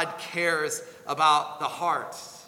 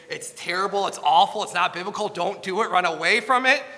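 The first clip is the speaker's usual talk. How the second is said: louder, forceful denunciation, rising at the end; emphatic outburst; 5 dB louder than usual. Shown as a demonstration. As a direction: blurt it out like a heated rant. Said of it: "I just wanna just say".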